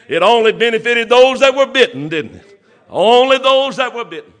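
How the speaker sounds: preacher rousing the congregation, fervent and laughing; fervent preaching. Acted. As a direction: drive the point home with joy. Preacher builds to climax.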